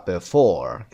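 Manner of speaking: before with FORE stressed; stress on second syllable. Shown as a demonstration. Teacher repeating the example for learners, second-syllable stress on before. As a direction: lean on the end of before.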